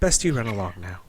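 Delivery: lightly voiced elf woman; a hint of an elvish lady, dismissing someone; understated elvish feminine voice. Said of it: "feminine voice with a, a little elvish".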